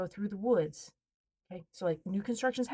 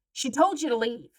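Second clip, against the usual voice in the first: big man voice; 4 semitones higher, 6 dB louder than usual. Retold or imitated. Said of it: "my husband's big man voice".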